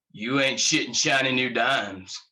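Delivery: amused Texan officer; punchy Texan captain's quip; Texas accent. Acted. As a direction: tease him in a Texas twang. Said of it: "thick Texas accent".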